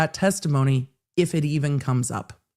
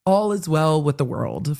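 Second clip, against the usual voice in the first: mock contented cat. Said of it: "he's like".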